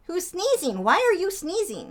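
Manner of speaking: high, fussing pet talk. Real, not acted. Asking her sneezing bird what's wrong in high baby talk. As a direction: worry over the bird in a high coo.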